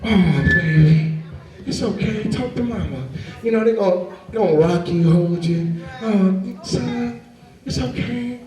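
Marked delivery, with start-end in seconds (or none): 0.0-3.1 soothing mama. Retold or imitated. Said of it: "when a mama wanna console you". 6.0-8.4 soft, hushed comforting coo; mama mode. Retold or imitated. Mother rocking her son, softly cooing. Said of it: "that's the mama mode".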